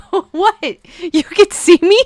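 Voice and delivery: startled "What? You can see me?" rising high; mock ghost surprise. Shown as a demonstration. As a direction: play the ghost shocked at being seen. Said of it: "you have to say it with a straight face".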